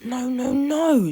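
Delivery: loud rising no, no, no; shouting. A narrator's reading. George shouting at the gulls to stop, loud cry. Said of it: "shouted George and Mister Grinling".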